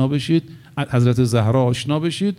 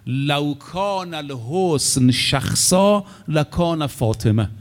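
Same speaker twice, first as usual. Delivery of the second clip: a lightly chanted Arabic quote; slow hadith recital; slower than usual. Acted.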